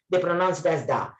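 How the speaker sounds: THE pronounced "tha"; THE ending in "ah", not "ee". Shown as a demonstration. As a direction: say THE with an open "uh" vowel. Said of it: "before consonant sounds".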